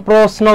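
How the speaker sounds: প্রশ্ন said 'prosno', with s; ছয়ের মতো উচ্চারণ. Shown as a demonstration. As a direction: put a clear s, not sh, in প্রশ্ন. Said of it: "ছয়ের মতো উচ্চারণ হচ্ছে কিনা". (প্রশ্ন-এ স্পষ্ট স: 'প্রোস্নো')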